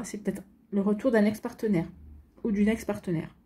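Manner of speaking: talking through hiccups; hiccuping between words. Real, not acted. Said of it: "j'ai le hoquet".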